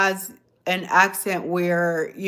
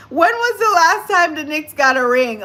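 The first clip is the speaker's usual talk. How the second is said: incredulous question; 10 semitones higher, 7 dB louder than usual. Real, not acted. Wondering aloud about the Knicks.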